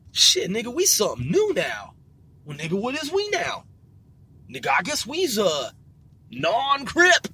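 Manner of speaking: lightly acted gang debate; playful, put-on back-and-forth; voiced gang member. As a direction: swoop the pitch up and down in mock deliberation. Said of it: "some of them were like".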